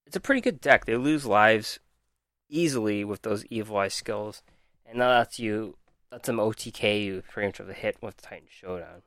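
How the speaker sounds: talking around a mouth sore; struggling to talk with a sore mouth; with a mouth ulcer. Real, not acted. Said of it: "I'm finding it really hard to talk".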